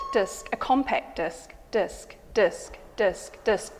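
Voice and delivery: "disc" with a short i, slow; disc pronunciation. Shown as a demonstration. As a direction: lean on the i in "disc", slowly. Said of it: "when it's a disc".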